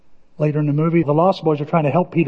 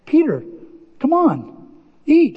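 Tink; 8 semitones higher, slower than usual. Retold or imitated. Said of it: "then Tink s-, speaks up and says".

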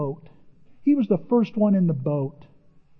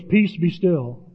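calm command; much slower than usual. Retold or imitated. Jesus calms the storm.

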